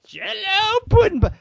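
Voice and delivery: high, far-off pitchman voice; Bill Cosby impression. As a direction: toss off the ad slogan. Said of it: "your Bill Cosby impression".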